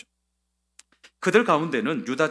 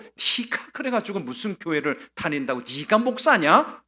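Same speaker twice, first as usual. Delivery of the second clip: mocking jab; 3 semitones higher, 3 dB louder than usual. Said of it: "조롱하고 비꼬고".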